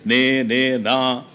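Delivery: slow, drawn-out disbelieving question; gazing at an old photo, slowly wondering is this me; disbelief at own photo. Retold or imitated. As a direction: stretch out నేనేనా in amazement.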